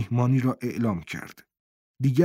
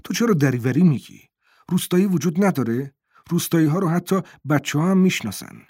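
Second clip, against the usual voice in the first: sharp, louder scolding with higher pitch; 4 semitones higher, 3 dB louder than usual. Acted. Najla snapping at Boland with contempt, a louder scold. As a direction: scold him with open contempt. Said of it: "تشرزنان به او گفت".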